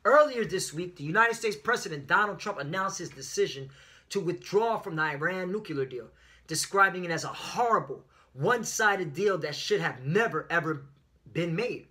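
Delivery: article read aloud with punched key words; lively reading. Real, not acted. Preacher reading the Iran deal article to followers, lively reading. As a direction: read the news with some life. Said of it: "read this with some life in it".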